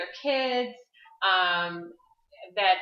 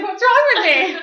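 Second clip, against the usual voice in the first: louder, higher, laughing through the question; laughing self-mock; 9 semitones higher, 11 dB louder than usual. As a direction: laugh at yourself while asking. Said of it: "I was like".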